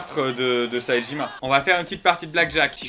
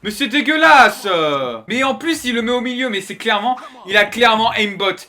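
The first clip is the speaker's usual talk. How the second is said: raging gamer; 4 semitones higher, 3 dB louder than usual. Real, not acted. Raging about cheating opponent.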